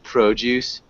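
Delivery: a light stab at a British "produce"; imitating a British "produce", barely changed; mock British accent. Teacher imitating a student's British produce. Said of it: "that sounds really British. She's saying, like".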